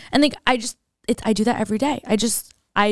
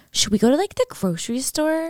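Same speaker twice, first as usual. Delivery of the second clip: mock excited Kardashian; 6 semitones higher than usual. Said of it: "they're like".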